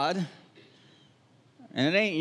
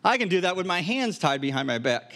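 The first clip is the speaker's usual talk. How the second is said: mock offhand. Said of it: "And Jesus has said".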